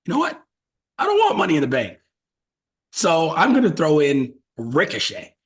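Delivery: high, fast mock scheming. GM deciding to tank the match, high fast scheming. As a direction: plot it out quick and high.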